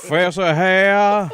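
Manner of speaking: slow, high laughing Fessa hair. Acted.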